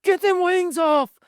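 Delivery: high, slow mock-stern order; dad mocking an overreacting stern order, slow and high. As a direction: drag it out like a comic stern father. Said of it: "Nor am I like".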